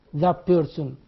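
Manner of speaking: "the person" as "thap person", that's final t turned to p; assimilated t sound. Shown as a demonstration. Teacher repeating the assimilated form, "the person" said as "thap person". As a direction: blend the first word into the p of person. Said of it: "change to pa".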